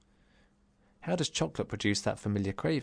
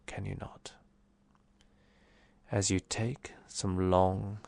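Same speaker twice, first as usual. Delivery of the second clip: calm meditation guide, unhurried phrase by phrase; guided relaxation. Acted.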